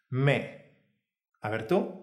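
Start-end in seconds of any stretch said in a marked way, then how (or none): 0.1-0.7 Me with a very clean, open E; clear open E. Shown as a demonstration. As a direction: give Me a well-marked open vowel. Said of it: "Una E muy clara y abierta".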